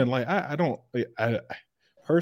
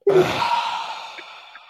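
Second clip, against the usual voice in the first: long, noisy breath out; exasperated sigh. Real, not acted. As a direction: sigh hard at a terrible pun. Groaning at a bad pun.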